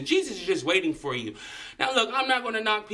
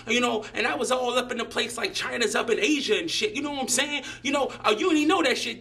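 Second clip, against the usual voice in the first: higher-pitched imitation of a clueless show-off; mock idiot know-it-all; 6 semitones higher than usual. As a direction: lampoon a dumb guy bragging about facts, pitched up. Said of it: "It'll be something like".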